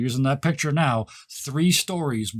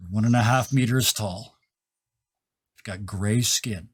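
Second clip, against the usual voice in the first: game master's scene setting; 4 semitones lower than usual. Acted. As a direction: let the reveal out piece by piece. Game master slowly unveils the figure.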